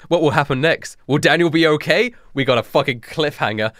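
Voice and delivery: ordinary talk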